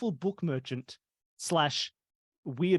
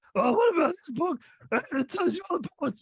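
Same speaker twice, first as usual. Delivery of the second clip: put-on dumb voice, pitched higher; 13 semitones higher than usual. Retelling a visit to a book merchant, imitating his dumb voice. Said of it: "Chunky had a dumb voice".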